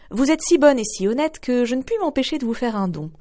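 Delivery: lightly voiced old fairy; fairy granting a gift. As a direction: bestow the gift kindly.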